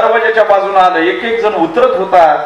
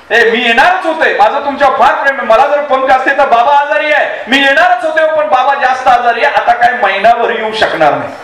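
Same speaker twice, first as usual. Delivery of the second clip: high-pitched, hurried tearful retelling; mock crying; 4 semitones higher than usual. Lovesick husband rereads wife's letter, mock crying. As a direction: wail the letter out in mock distress. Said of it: "ते रडायला लागले ती".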